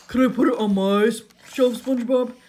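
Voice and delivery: loud, eager request; Patrick. A narrator's reading. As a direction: blurt it out loudly in a cartoon voice. Patrick voiced asking eagerly.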